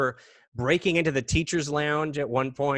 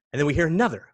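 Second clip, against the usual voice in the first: louder, tense storytelling; building suspense; 3 semitones higher, 5 dB louder, much faster than usual. Retold or imitated. Telling of a second bang, building suspense. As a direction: report the noise with rising tension.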